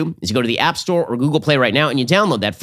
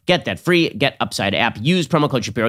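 normal talking voice

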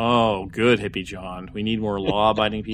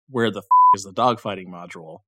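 British accent; 4 semitones lower, 3 dB louder than usual. Shown as a demonstration. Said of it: "when you say it with a British accent".

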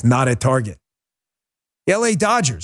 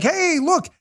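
high-pitched "hey" calling for attention; mock eager greeting. Store display hailing shoppers, mock eager.

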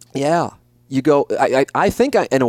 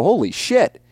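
mock shocked realization; 8 semitones higher than usual. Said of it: "you're sixty-five and you go".

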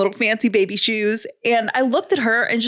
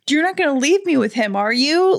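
mock whimper; 5 semitones higher than usual. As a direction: imitate a scared baby's little whimper. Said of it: "she was, like, a little whimpery".

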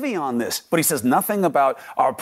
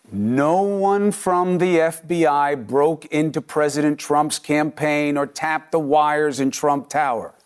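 slow, every word weighted; slow emphatic denial; slower than usual. Real, not acted. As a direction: spell it out slowly, word by word. Flatly refuting a false claim.

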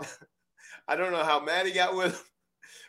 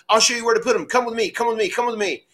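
excited; 8 semitones higher, 4 dB louder than usual. Retold or imitated. Owen leading hog men.

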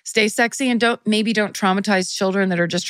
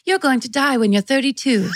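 put-on British accent; 5 semitones higher than usual. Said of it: "in a British accent".

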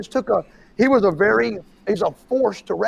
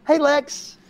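higher call across the gym; 8 semitones higher than usual. Retold or imitated. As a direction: hail him from across the room. Gym guy calling across the room.

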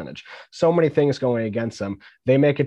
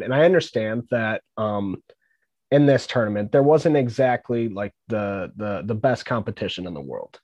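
muffled headset mic sound; speaking into headphones; headphones used as mic. Real, not acted. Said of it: "I'm talking into my headphones".

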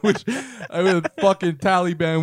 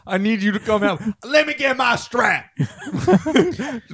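Medea voice; 6 semitones higher, slower than usual. Acted. Voicing Medea character.

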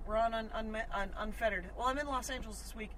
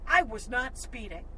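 yelling; 2 semitones higher, 5 dB louder, slower than usual. Retold or imitated. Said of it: "I'm yelling".

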